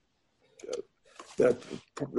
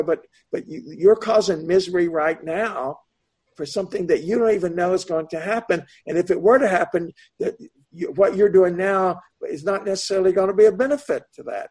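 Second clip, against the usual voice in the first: higher-pitched, insistent reasoning; earnest admonishing; 5 semitones higher than usual. Retold or imitated. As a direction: retell pleading with someone to see sense. Retells own admonition to worried individuals.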